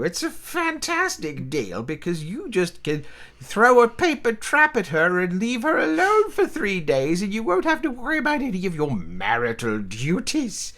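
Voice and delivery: lightly voiced gossiping old relative; elderly relative voice. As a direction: ramble like a nosy old aunt. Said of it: "this is a voice I'm actually comfortable with".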